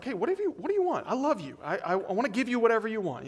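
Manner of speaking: king voiced high and eager, pleading to please; a smitten king gushing at his queen. Preacher voicing the king gushing to Esther.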